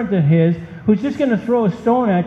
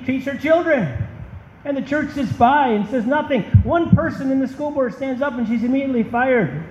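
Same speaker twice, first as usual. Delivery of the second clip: rising indignation, pitch climbing higher; getting upset; 6 semitones higher than usual. Real, not acted. Preacher scolding the silent church, genuinely upset. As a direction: preach it with real frustration building. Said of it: "Sorry, I'm getting a little upset".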